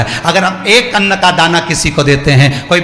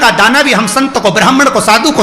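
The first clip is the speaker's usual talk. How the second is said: fervent preaching; 2 semitones higher than usual. Acted. Preacher urging the listeners to give, fervently preached. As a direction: preach it out to the whole crowd. Impassioned preaching of giving and receiving.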